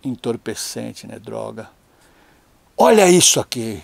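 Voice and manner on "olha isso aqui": bronca encenada, voz levantada; mãe brava. Retold or imitated. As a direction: imitando a mãe que confronta o filho. Mãe brava mostra o que achou. (acusação de mãe, levemente exagerada)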